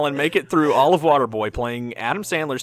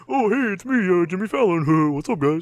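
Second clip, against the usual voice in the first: Jimmy Fallon impression; 3 semitones higher than usual. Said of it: "We're just like".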